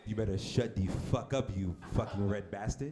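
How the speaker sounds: lightly attempted African accent, threatening; mock African accent, slowing at the end; bad African accent. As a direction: do a poor African accent as a stern master. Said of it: "This is my African accent".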